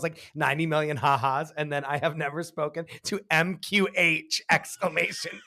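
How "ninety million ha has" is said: all caps. Retold or imitated. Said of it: "all capitals".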